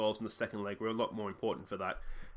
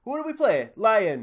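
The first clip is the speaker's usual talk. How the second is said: grumpy fan; 8 semitones higher, 10 dB louder than usual. Acted. Fan asked by reporter.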